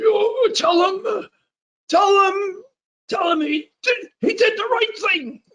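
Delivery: put-on very high-pitched, very old voice. Retelling what a very old priest said: imitating Dan Berrigan as very old. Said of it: "he talked like this".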